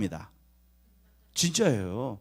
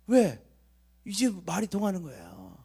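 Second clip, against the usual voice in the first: ordinary talk, nothing marked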